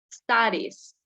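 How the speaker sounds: "Studies" in two syllables, the E silent; pronunciation demo. Shown as a demonstration. Teacher repeats the word for students, "Studies" with silent E. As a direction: model "Studies" alone, ending in an ees sound. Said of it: "no se pronuncia".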